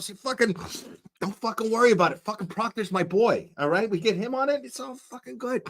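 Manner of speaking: put-on New York accent. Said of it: "It's a New York accent".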